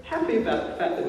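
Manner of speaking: Peter snaps back loud and high; a loud, annoyed shout from the boat; grumpy shout. Retold or imitated.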